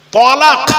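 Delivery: তলাক with an open o instead of তালাক; mocking mispronunciation. Preacher mocking how the youth say তলাক. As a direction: stretch out তলাক like a careless reciter. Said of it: "তলাকটা লিখো কিভাবে হবে?".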